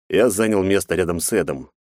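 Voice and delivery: ordinary delivery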